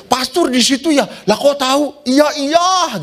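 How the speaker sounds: lightly voiced chattering ladies; gossipy ladies. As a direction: play the all-knowing women.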